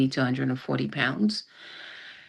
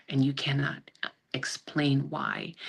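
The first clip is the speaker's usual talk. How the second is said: whisper; 5 dB quieter than usual. Real, not acted. Grieving mother breaks down.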